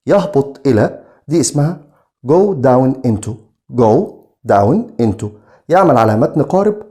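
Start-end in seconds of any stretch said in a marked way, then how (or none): 2.3-5.2 very slow, clear delivery; slow model phrase. Shown as a demonstration. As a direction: drag out "go down into" for the class to repeat. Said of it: "teacher models phrase". (نطق بطيء جدًا لـ "go down into")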